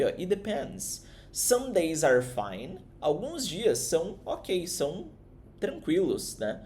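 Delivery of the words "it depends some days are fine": slow model line. Shown as a demonstration. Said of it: "você diz isso aqui".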